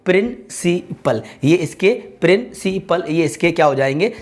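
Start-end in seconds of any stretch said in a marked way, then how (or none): 0.1-1.2 प्रिंसिपल as three detached beats; split into syllables. Shown as a demonstration. Teacher dividing a word for students, प्रिंसिपल syllable by syllable. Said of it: "syllable division आप करेंगे तो". 2.2-3.0 प्रिंसिपल slowly in three beats, प्रिन, सी, पल; split into syllables. Shown as a demonstration. Teacher repeating the division for students, प्रिंसिपल in separate syllables. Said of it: "syllable division हो जाएंगे".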